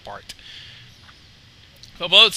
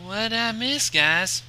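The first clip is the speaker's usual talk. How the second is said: put-on light southern accent; 5 semitones higher, 4 dB quieter, much slower than usual. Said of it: "in a light southern accent".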